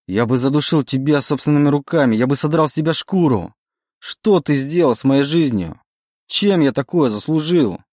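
raging. Acted. Oleg screams his anger at the demon. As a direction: rage at him with everything.

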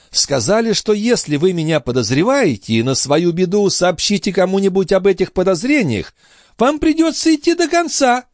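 put-on high, taunting old woman; sly old concierge. A narrator's reading. The concierge warning Marat, high and sly. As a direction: turn the threat back on him. Grivette threatens.

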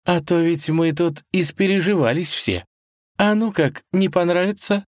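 lightly merry auntie; bubbly cook; cheerful. Acted. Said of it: "весело проговорила она".

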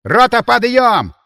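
barked army wake-up call; commanding bark. Acted. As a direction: bellow like a sergeant waking troops. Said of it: "командирским голосом рявкнул прямо в ухо".

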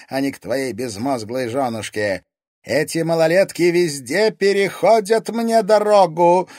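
scornful villainess. A narrator's reading. Countess to police chief and kids, scornful. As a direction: spit the words at them with scorn.

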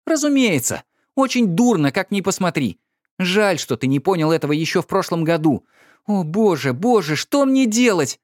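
high, bitter, then anguished cry; rising into despair; wife crying out in despair; despairing outburst. A narrator's reading.

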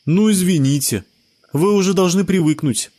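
put-on high boyish voice, mildly defensive; a kid shrugging off the blame, high; shrugging child. A narrator's reading. Sebastian excuses himself to friends, high child voice. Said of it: "развёл руками Себастьян".

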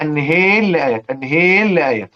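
والنهيل لآيات with the ر merged into a doubled لّ and the vowel tilted toward e; idgham with imala. Shown as a demonstration. Teacher demonstrating والنهيل لآيات with merging and imala. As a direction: say والنهيل as wanaheli llayat. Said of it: "فيبقى إيه؟".

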